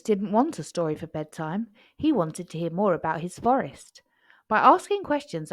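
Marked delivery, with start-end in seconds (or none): 4.5-5.5 high, loud eager start; proud cub. A narrator's reading. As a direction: burst out proudly. Cub tells mother proudly.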